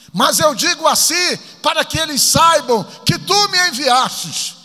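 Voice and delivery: high, projected shout of prayer; oração em voz alta. Retold or imitated. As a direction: preach Jesus' prayer out loud to heaven. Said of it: "ele falou pra Deus". (oração bradada em voz alta e aguda)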